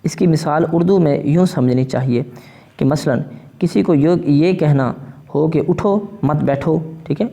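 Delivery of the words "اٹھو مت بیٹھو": اٹھو set apart, then مت بیٹھو; pause after اٹھو. Shown as a demonstration. Teacher showing where to stop in an Urdu example, pause after اٹھو. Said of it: "پر ٹھہرنا لازم ہے".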